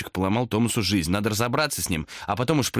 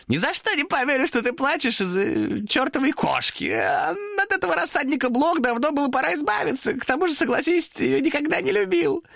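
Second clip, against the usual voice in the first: demon reply. Acted. Demon refuses to leave Thomas alone. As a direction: sigh it out with fake pity.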